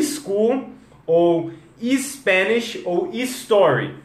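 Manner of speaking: slow "school", "Spanish", "story", each starting ee-s; added opening I. Shown as a demonstration. Teacher showing learners' mistake, slow "school, Spanish, story" with I. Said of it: "aí muda pra um I".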